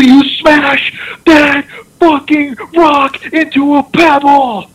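high, stretched-out mock roar; imitated coach's climax. Coach firing up the team about pounding the rock, mock roar.

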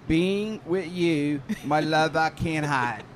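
slow, dramatic Pittsburghese card reading; hammed-up Pittsburghese love-card recital. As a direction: read the card in Pittsburghese, savoring each word. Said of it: "in his best Pittsburghese".

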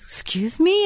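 high, questioning imitation of a child; little boy. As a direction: pitch it up like a small boy asking. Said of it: "And he goes".

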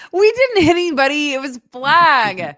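high-pitched protest, slowing at the end; amused protest. Real, not acted. Teased by co-host about hitting people, amused protest. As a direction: protest in a high voice, fresh from laughing.

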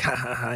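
soft mock "ha ha ha"; quiet, spaced-out fake laugh; imitated weird laugh. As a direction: imitate a creepy man's odd chuckle. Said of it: "He does this, like, weird".

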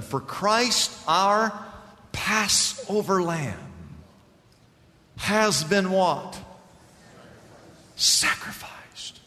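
slow, weighty scripture reading. Real, not acted. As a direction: lay each word down slowly. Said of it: "I'm gonna read it slow".

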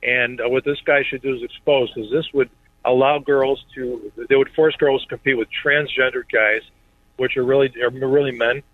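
speakerphone from a car; chatting in a car. Real, not acted. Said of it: "you sound like you're in the car".

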